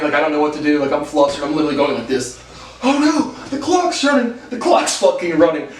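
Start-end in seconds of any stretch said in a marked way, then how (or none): 2.8-5.7 high-pitched mock alarm; hammed-up frantic complaint; mock parents screaming. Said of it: "they're all screaming at me".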